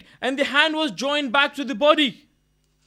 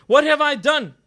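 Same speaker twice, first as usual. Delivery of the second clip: louder, impassioned retelling of a man's anguish; anguished outcry; 6 dB louder than usual. Retold or imitated. Shocked butcher reproaching himself, retold as an anguished outcry. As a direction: voice his shock as a raised lament, without sobs. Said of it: "He starts crying, he starts weeping".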